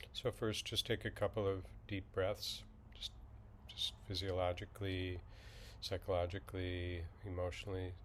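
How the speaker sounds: slightly hushed, even meditation guide; calm, unhurried instruction with long silences; guided meditation. Acted. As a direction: ease listeners into settling, with long pauses.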